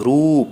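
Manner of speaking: long drawn ঊ in রূপ; long vowel. Shown as a demonstration. Teacher showing long ঊ, drawn out in রূপ. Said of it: "দীর্ঘ উচ্চারণ করা হয়".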